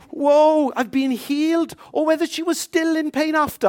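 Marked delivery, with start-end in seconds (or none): 0.1-1.8 high, loud mock amazement; imagined joyful cry. Preacher imagining the woman healed, high excited mock cry. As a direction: voice her imagined delight.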